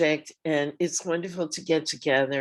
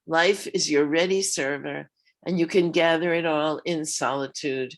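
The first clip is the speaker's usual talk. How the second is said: poem reading. Acted. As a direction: read it like a heartfelt elegy. Reads her poem aloud.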